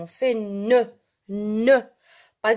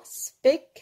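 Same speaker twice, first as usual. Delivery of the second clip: higher, broken after the first syllable; syllable-by-syllable dictation; 5 semitones higher than usual. Shown as a demonstration. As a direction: sound it out in pieces for learners writing along. Teacher dictates the feminine form. (dictée syllabe par syllabe, voix plus haute)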